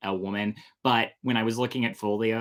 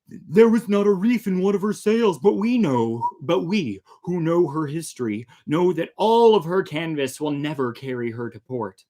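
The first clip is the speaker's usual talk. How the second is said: pirate voice; 5 semitones higher, 5 dB louder than usual. Acted. Story reading, pirate speaking.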